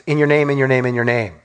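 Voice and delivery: "in your name" repeated in a low, falling run; repeated emphasis. Shown as a demonstration. Preacher showing the repeated claim, emphatic "in your name". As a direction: tick off each "in your name" in turn. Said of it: "Notice the emphasis".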